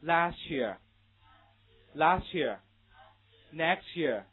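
"Last year" as las-cheer, "next year" as nex-cheer; slow model reading, t+y as ch in "Last year"; read-after-me linking. Shown as a demonstration. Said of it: "跟我一起来读一下".

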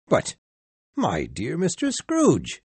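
astonished cry. Acted. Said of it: "he cried".

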